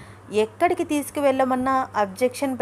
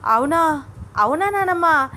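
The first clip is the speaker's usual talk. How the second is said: high, louder delighted "really?"; thrilled disbelief; overjoyed surprise; 6 semitones higher, 5 dB louder than usual. Acted. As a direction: exclaim as if about to jump. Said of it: "చిన్నగా ఎగిరి గంతులు వేస్తున్నంత పని చేస్తోంది".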